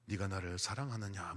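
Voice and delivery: low, soft voice of God asking; a hint of a divine voice. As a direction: ask gently from above, low. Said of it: "물어보시더래요".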